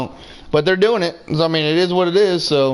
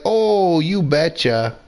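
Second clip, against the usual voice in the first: put-on Wisconsin accent; slower than usual. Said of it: "he sounds like from Wisconsin".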